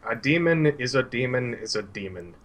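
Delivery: put-on grave counsel from an old teacher; grim old Suhail. Old teacher gravely counselling his troubled student. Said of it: "grimly looks down, and he's like".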